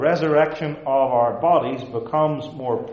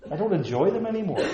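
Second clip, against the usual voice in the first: rueful laugh; 7 semitones higher, faster than usual. Real, not acted. Rueful aside about lost pleasures.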